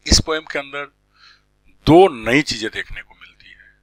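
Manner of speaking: whisper. Real, not acted. Teacher whispers key point.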